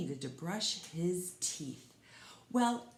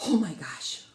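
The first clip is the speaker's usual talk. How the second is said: whisper; 5 dB louder than usual. Real, not acted. Relief after the chase.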